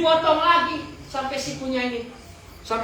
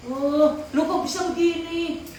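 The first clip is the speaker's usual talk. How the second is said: much higher "Oh, lu kok bisa begini?"; shocked question; 7 semitones higher than usual. Acted. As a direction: gasp at the sight of the stump. Fishmonger shocked at lost hand. (tukang ikan kaget melihat tangan yang hilang)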